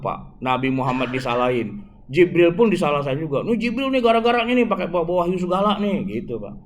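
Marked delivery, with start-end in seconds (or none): 3.5-6.0 grumbling blame. Acted. Jews blame Jibril.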